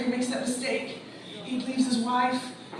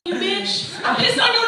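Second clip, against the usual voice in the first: bitter yell; 5 semitones higher, 6 dB louder than usual. Acted. Comedian acts out bitter rant.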